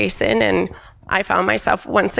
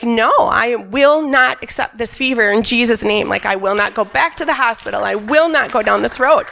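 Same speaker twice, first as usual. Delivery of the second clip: feisty declaration. Retold or imitated. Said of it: "I can get really feisty".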